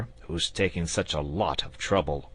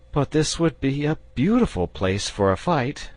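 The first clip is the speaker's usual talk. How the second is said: persuasive; 10 semitones higher, 6 dB louder than usual. A narrator's reading.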